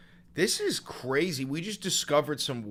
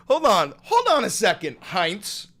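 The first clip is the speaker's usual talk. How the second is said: mock interrogation; 3 semitones higher, 5 dB louder than usual. Interrogating Heinz.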